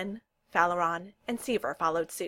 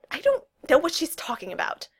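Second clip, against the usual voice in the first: higher-pitched flustered denial; blustering; 9 semitones higher, 6 dB louder than usual. A narrator's reading. Kel denies her friends' suspicions, blustering. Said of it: "Kel blustered".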